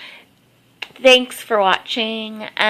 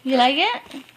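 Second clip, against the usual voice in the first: pet talk; 2 semitones higher, much slower than usual. Real, not acted. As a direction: coo at the puppy over her toy. Talking to the dog with toy.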